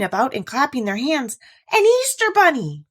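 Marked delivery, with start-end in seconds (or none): 1.7-2.8 excited cry. Acted. The dolls discover the Easter bunny, high and thrilled. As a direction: squeal it out in wonder. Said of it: "all the dolls cried".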